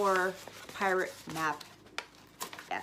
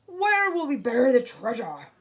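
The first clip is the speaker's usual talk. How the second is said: higher, louder fretful shout; loud worried captain; 5 semitones higher, 10 dB louder than usual. A narrator's reading. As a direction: shout the worry to the crew. Captain continues in storm.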